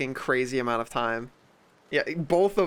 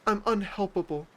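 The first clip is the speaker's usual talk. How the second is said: mock self-pity; 5 dB quieter than usual. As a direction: whine like a drama queen. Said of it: "they're like".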